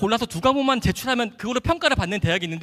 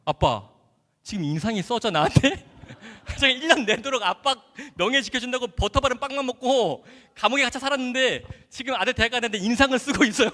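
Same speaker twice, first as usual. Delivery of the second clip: indignant son; 4 semitones higher than usual. Retold or imitated. Son confronting his frowning father, indignant, half laughing. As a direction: protest at Dad with mock outrage. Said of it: "막 화가 나는 거예요".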